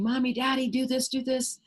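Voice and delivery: high, pleading kid voice imitating a child; whiny child. Child nagging a busy parent, lightly imitated. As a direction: tug at the parent like an eager little kid. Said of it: "they're going".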